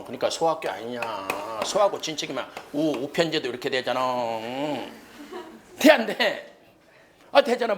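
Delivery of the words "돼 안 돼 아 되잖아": loud, high playful challenge; mock insistent demand. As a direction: press them loudly for agreement. Teacher mock-demanding agreement from class.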